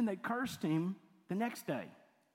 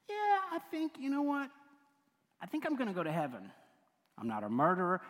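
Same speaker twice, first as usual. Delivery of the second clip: smug good guy; 4 semitones higher, faster than usual. Retold or imitated. Imitating self-satisfied good guy.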